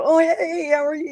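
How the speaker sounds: very high, chirpy greeting; customer service voice. Retold or imitated. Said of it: "and I go".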